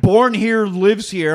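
a touch of a macho pickup commercial; mock slogan voice. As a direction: announce it like a proud truck ad. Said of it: "a sticker that says".

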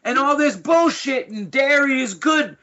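imitating an outraged Australian friend; mock outraged mate. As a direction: mimic a fed-up Aussie bloke venting. Ian's angry texts acted out.

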